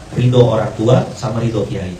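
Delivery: ordinary talk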